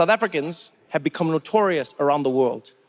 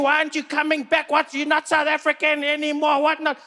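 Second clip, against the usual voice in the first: angry fans; 7 semitones higher than usual. Retold or imitated. South African fans voiced.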